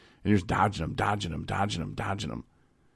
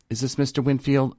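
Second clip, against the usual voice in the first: higher, sing-song agent voice; mimicking phone agent; 7 semitones higher, 4 dB louder than usual. Agent checking his name again, in a higher put-on voice. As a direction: lift the pitch like a call-center rep. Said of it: "She'd be like".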